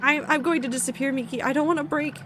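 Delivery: high, pleading cries for help; character terrified of disappearing, begging; scared pleading. Acted. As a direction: call for Miki in panic. Character panics, calls Miki.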